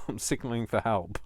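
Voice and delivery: giggling through the line; laughing. Real, not acted. Crafter joking to viewers, repeating it through giggles. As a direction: laugh as you repeat the punchline.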